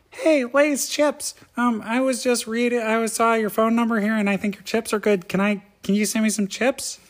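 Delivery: put-on high-pitched kid on the phone; child caller. Grade-schooler calling a chip company for freebies, child caller.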